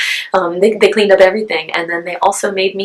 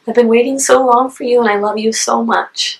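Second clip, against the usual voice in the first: retold loving words, raised pitch; tender and emotional; 5 semitones higher than usual. Mother holding her newborn at last, tender and moved. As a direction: tell your newborn, moved and higher-voiced.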